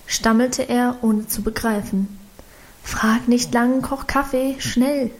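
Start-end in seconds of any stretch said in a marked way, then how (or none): 2.8-5.1 pressing him to hurry; lightly hurried urging; a touch of urgency, pushing him on; urgent. Acted. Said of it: "drängte sie".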